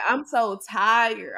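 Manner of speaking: slow, drawn-out tired whine. Retold or imitated. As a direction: drag the words out, worn out. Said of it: "So then she like".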